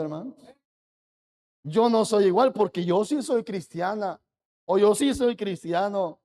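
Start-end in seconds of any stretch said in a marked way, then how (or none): 1.6-6.2 smug mimicry. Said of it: "Criticamos a los demás".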